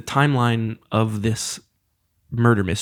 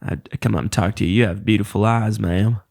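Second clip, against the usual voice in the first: put-on Southern accent, courting; Southern flirt. Shown as a demonstration. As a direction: chat someone up in a Forrest Gump-style Southern accent. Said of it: "you know, Southern".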